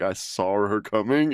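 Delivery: "saw" said as "sawr", lightly imitated and slow; Boston R on saw. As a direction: tack an R onto "saw" like a Bostonian. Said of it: "these little words, like, "saw".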